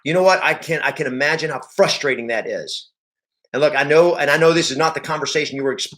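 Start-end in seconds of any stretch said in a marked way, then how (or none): 0.0-2.9 a frustrated groan, then sympathetic; empathetic agent demo. Shown as a demonstration. Agent to seller with an expired listing, frustrated empathy. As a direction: side with the angry seller's frustration. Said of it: "you gotta go like".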